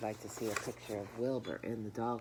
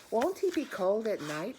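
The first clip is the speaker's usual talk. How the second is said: put-on higher, louder worried child's question; a girl pleading with her father, higher and louder; young girl Fern; 7 semitones higher, 7 dB louder than usual. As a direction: ask it like an anxious little girl.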